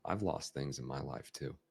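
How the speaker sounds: empathizing. Shown as a demonstration. Coach empathizing with a child who lost a ball, softly empathetic. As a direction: gently come down to their level. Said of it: "come down to their level".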